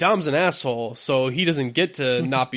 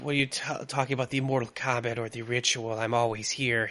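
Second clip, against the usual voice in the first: faint, light put-on French accent; 7 dB quieter than usual. Doing a Christopher Lambert Raiden impression: Christopher Lambert Raiden impression. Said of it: "Not French enough".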